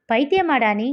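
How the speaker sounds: mild irritated retort; a touch of exasperated anger; still angry. Acted. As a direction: chide a friend, lightly cross. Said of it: "ஆதி இன்னும் கோபமாக".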